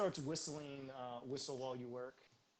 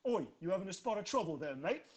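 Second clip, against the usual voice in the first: half ogre voice; 5 semitones higher, 5 dB louder than usual. Acted. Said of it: "looks at you, and says".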